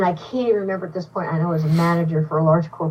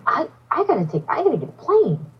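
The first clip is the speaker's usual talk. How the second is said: flustered; 9 semitones higher than usual. Retold or imitated. Flustered reply to the voice.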